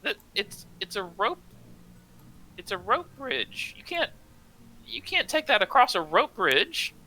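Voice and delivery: high, hushed, worried gnome. Acted. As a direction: plead in a small high voice. Ula keeps arguing in character.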